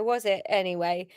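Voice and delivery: ordinary delivery, nothing marked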